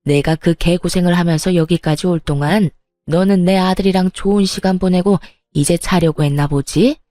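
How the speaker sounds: put-on a mild, simmering angry old woman; fuming mother-in-law. Mother-in-law scolding her pregnant daughter-in-law, mildly fuming. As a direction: needle her with bitter sarcasm. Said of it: "노려보며 씩씩거리고 있는 시모".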